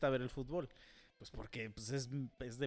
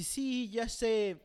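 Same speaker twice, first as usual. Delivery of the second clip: smug reply; 7 semitones higher, 5 dB louder, much slower than usual. Retold or imitated. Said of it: "y me dice".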